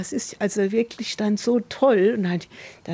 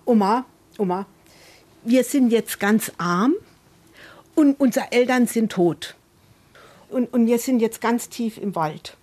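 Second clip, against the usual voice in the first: granddaughter's make-believe; 2 semitones higher, 4 dB louder than usual. Retold or imitated. Granddaughter tells Oma their pretend adventure, lightly imitated child. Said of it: "und dann sagt sie immer".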